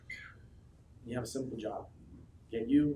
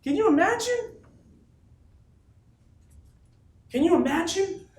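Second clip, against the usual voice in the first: shouted; 6 dB louder than usual. Real, not acted. Speaker to his sales team, roaring the question. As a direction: roar it to lift the whole room. Hyping crowd about big event.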